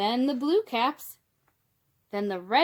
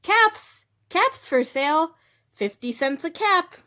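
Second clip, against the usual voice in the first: high, loud street-seller's cry; calling out wares; 7 semitones higher, 6 dB louder than usual. A narrator's reading. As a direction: call your caps for sale down the street. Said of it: "he walked back to town calling".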